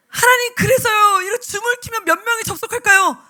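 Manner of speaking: desperate plea. Retold or imitated. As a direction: beg God for any sign. Desperate prayer. (하나님께 매달리는 절박한 외침)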